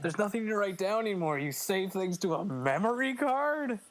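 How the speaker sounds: hammed-up incredulous complaint; mock outrage. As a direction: rant in playful disbelief. Mock outrage at memory cards.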